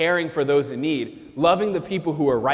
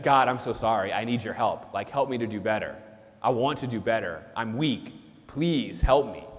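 humble plea; 4 semitones lower, 5 dB quieter than usual. Pretend. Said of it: "if they would have said".

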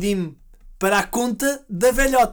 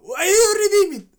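put-on much higher and louder, furious accented English; angry scammer; 13 semitones higher, 7 dB louder than usual. Scammer yelling at the granny, furious accented shout. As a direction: spit out "redeem" in rage. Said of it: "o gajo continua".

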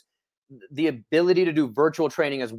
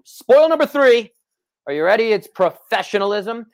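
excited reveal; 8 semitones higher, 8 dB louder than usual. Real, not acted. Teasing reveal of number three.

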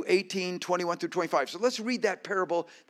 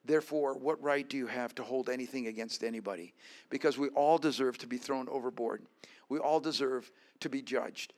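earnest; 3 semitones lower than usual. Real, not acted. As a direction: bring it down, heartfelt. Quiet earnest sermon close.

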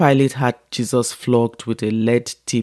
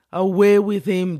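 higher, forceful yelled cry; yelling; 7 semitones higher than usual. A narrator's reading. Crowd yelling at Pilate, higher forceful yell. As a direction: cry for him to be taken away. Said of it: "they yelled".

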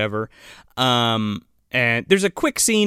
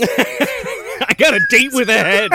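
B-movie hero; 9 semitones higher, 4 dB louder, slower than usual. Pretend. Bruce Campbell character line.

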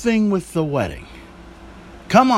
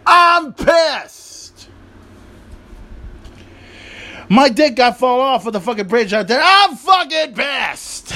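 hammed-up mock fury; 3 semitones higher, slower than usual. Mocking Rusev's rage over toys.

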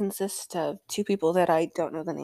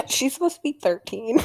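laughing while speaking, higher and louder; 5 semitones higher, 5 dB louder than usual. Real, not acted. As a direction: laugh through the words in disbelief. Laughs at the character's age.

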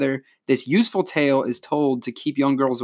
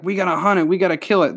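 voiced a little higher, urgent townsfolk; lightly acted rallying cry; mock rallying townspeople; 5 semitones higher, faster than usual. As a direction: imitate villagers rallying for a hunt. Townspeople rallying to hunt, retold.

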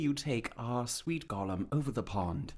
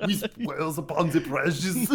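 Gollum; 2 semitones higher, 3 dB louder than usual. Acted. Gollum voice, laughing.

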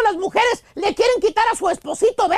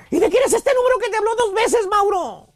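nagging wife. Acted. Wife grilling husband over a phone number, scolding. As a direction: play the jealous wife grilling her husband. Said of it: "pone ceja regañona y te pregunta".

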